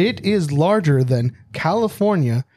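lightly voiced dramatic announcer. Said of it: "Do your announcer voice".

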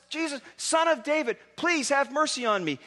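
a mock plea cried across a crowd; yelling out. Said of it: "he yells out".

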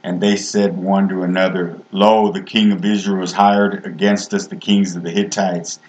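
reading King James verses in a steady preaching voice; measured reading of scripture to the congregation. Acted. Reads scripture aloud.

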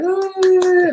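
high, drawn-out impressed "oh"; mock impressed oh. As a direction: play the crowd gasping in awe, high and long. Crowd reaction voiced.

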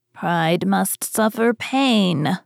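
slow, stately grand dame; imperious old money matriarch. Acted. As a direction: lay down the rule like a proud old matriarch. Grandmother rebukes the complaining mermaid.

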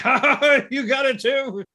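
high laughing taunt; high mock laugh of a smug senpai. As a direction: cackle it out smugly. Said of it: "Takeda is like".

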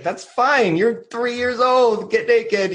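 a hint of a soothing feminine figure; gentle feminine voice. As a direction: voice the playful woman gently. Imagined feminine figure speaking.

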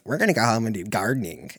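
mocking kid's singsong copy of mom; kid mimicking mom. Kid mocking his mom at the checkout, bratty mimic. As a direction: parrot mom's words in a bratty kid voice. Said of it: "this kid just goes".

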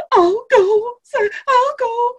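high mock little-boy voice, slowing at the end; brave little boy. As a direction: play the son stepping up bravely. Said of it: "Dario's like".

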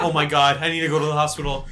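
hammed-up panic about the hospital; panicked. Teen retelling a scare to friends, mock panic. Panicked retold self-quote.

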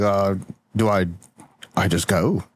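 low unsure voice; confused old man. Acted. Will confused on toilet.

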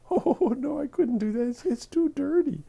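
put-on high-pitched, demure old lady; little old lady. Little old lady refusing to recite her limerick, high and bashful. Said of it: "this little old lady answers".

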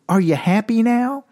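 high, rising indignant demand; mock pissed-off principal. Principal berating the kids, mock angry question. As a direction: imitate an exasperated principal scolding kids. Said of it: "he gets all pissed off".

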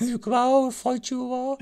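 loud, very high falsetto holler; squeaky dare shouted into the bushes; comically high call to fight; mock challenge. Mock challenge to hidden monster.

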